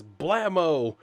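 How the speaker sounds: high, loud mock incantation; shouted magic word. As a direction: cry it out like a superhero's transformation word.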